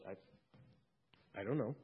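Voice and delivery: soft, bewildered mumble; lost for an answer, quietly unsure; a puzzled thief at the gates; confused thief. Acted. Thief unsure at heaven's gate.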